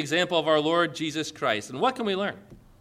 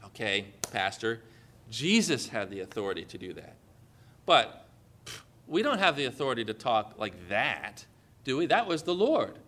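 lower, softer doubting listener; imagined objector; 7 semitones lower, 4 dB quieter than usual. Pretend. A listener objecting to the pastor, softly and lower. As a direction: voice the hesitant churchgoer's excuse. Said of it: "But you might say".

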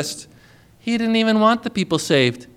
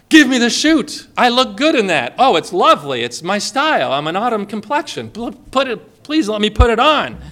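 eager begging. Acted. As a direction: play a vain passenger suddenly desperate for the chute. Passenger now begs for parachute.

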